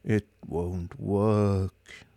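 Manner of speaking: very slow monotone; a robot's dreary drone; droned. Acted. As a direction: drone it out lifelessly. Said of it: "droned Marvin".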